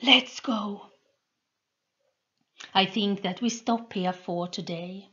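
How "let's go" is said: a little louder call to leave; mild shout. A narrator's reading. Soldier calling his comrades to flee, mild shout. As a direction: call the others away. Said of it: "Someone shouted".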